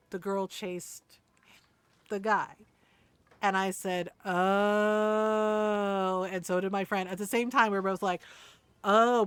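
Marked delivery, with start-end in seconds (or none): 4.3-6.2 long, loud, held "oh"; retold dawning realisation. She and friend suddenly understand Ron, dawning realisation. 8.8-9.3 loud "oh" of understanding; retold realisation. Both friends react together, suddenly understanding.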